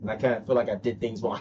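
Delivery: a hint of sheepish regret; mock confession. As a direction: voice the rival admitting fault. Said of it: "openly confess and admit".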